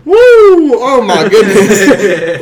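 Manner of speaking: pained cries from a leg cramp. Real, not acted. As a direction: yelp through a sudden cramp. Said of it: "I'm cramping".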